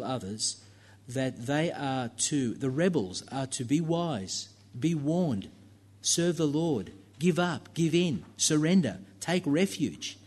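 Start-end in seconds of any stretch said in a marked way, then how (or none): 2.5-10.2 rising urgent plea. Real, not acted. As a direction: build the appeal step by step, pressing harder. Preacher urging rebels to surrender.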